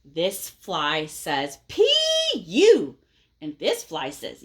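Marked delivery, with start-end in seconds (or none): 1.7-3.0 louder, mocking little fly. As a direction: tease him with a loud taunt. Fly voiced, reading aloud.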